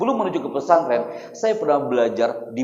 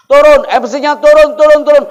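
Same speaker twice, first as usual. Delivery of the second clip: shouted jeering; 11 semitones higher, 14 dB louder than usual. Acted. Villagers drive the boy MC off the stage, shouting. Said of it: "mereka teriak mengusir saya".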